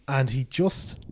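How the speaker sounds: heavy breaths into the mic; heavy nose breathing. Real, not acted. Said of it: "stop reading into the mic".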